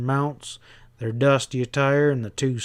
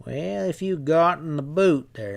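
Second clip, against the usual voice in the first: a hint of a knowing stableman; sly stableman; 3 semitones higher than usual.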